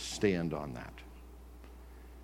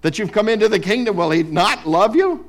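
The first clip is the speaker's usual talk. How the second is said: retold preaching; 12 semitones higher, 13 dB louder than usual. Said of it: "And he said".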